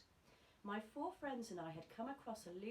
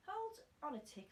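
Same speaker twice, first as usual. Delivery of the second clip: put-on high, eager boy's plea; schoolboy voice; 11 semitones higher than usual. A narrator's reading. Young Roald stopping his friends, high and eager. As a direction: stop them, lightly voiced boy. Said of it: "I said".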